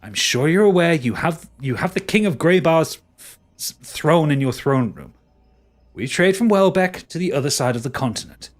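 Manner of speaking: exasperated explaining. Acted. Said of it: "puts his hands on his temples and goes".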